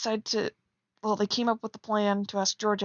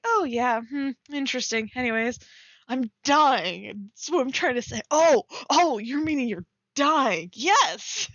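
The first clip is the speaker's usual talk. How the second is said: high, hammed-up back-and-forth ending in a loud yes; mock dialogue; 3 semitones higher, 4 dB louder than usual. Writer acts out a silly exchange, hammed-up and high. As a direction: act out both sides, exaggerated. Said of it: "Kind of like a".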